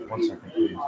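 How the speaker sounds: whispered aside. Real, not acted. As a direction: whisper it off mic.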